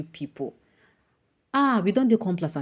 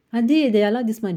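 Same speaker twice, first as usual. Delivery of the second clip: higher and louder, fuming; indignant; 5 semitones higher, 6 dB louder than usual. Real, not acted. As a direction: push the outrage. Angry rant.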